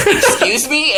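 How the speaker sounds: high, affronted question, imitated; mock indignation. Angry dad overhears delivery guy's insult, mock indignant. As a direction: play the customer who can't believe what he heard.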